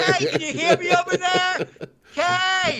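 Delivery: very high calling voice. Real, not acted. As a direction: call across the room. Calling to tiny video feed.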